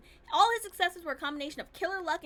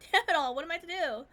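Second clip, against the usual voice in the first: bitter laugh; 3 semitones higher, 6 dB louder than usual. Acted. Shotaro's despair about inheritance.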